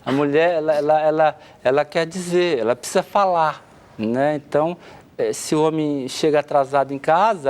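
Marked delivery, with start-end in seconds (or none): none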